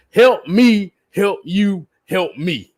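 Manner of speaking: mock-beg for help, then trail off; begging plea. Player begging a star to stay, mock pleading. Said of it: "the phrase that I got from it is".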